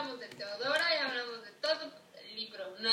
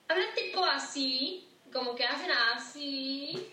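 imitating a Mexico City lilt, drawn out; chilango accent; slower than usual. Woman shows cohost how chilangos talk, imitated chilango accent. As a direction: stretch it into a slow, mock chilango curve. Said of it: "cómo, cómo lo hacen".

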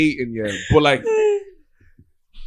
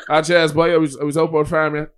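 lightly mocked rural Irish accent; jokey rural Irish twang; niche regional accent. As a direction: put on a country farmer's accent. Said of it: "I don't wanna hear a niche accent".

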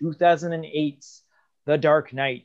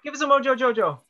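cartoon villain voice; 9 semitones higher, much faster than usual. Coaxing the guest.

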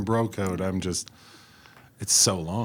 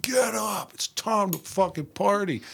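rowdy party wake-up; 11 semitones higher than usual. Retold or imitated. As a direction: bellow it like a party animal. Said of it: "I'm being like".

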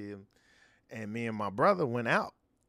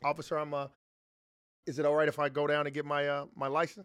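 polite officer voice; faster than usual. Retold or imitated. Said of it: "I got a different type of voice".

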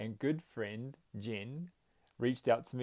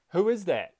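high, loud call falling away at the end; echoed curious shout; 6 semitones higher, 6 dB louder than usual. A narrator's reading. Mountain repeating the boy's question, curious shout. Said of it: "the voice replied the same".

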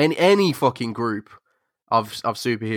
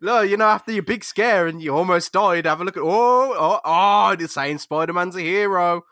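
scheming son; 5 semitones higher than usual. Retold or imitated. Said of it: "He's just like".

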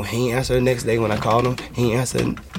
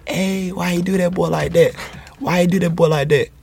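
imitating friends' sing-song catchphrase, raised higher; the friends' teasing catchphrase, pitched up; 5 semitones higher than usual. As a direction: mimic how the friends teased him, higher pitched. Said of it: "Why are they saying it like that?".

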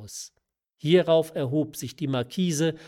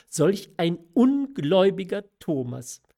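secretly delighted; 6 semitones higher, 6 dB louder than usual. A narrator's reading. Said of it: "sprach sie mit heimlich vergnügter Seele".

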